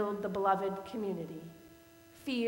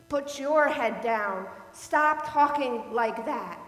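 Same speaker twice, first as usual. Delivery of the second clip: slow, louder, each word laid down; slow firm command; 6 dB louder, slower than usual. Retold or imitated. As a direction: shut him down with steady force. Ordering the man to stop.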